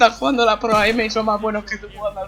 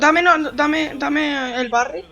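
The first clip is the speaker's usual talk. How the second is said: loud drawn-out demand; 5 semitones higher, 5 dB louder, much slower than usual. Real, not acted. Begging teammate for barrel.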